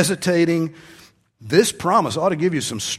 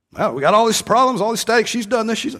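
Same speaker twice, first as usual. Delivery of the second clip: higher, louder aggrieved rant; complaining husband; 8 semitones higher, 4 dB louder, faster than usual. Retold or imitated. Husband griping about wife in counseling, higher aggrieved rant. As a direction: pile up grievances against her.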